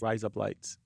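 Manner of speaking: "Rise up lights" said low and soft, like Australian "razor blades"; Australian-sounding razor blades. Shown as a demonstration. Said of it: "razor blades in Australian".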